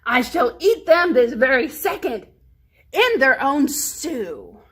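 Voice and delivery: a greedy wolf announcing dinner. Acted. Hungry wolf voiced.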